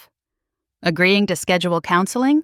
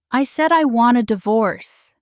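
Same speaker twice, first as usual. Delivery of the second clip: steady and sure; 3 semitones higher than usual. Acted. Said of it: "his tone steady and sure".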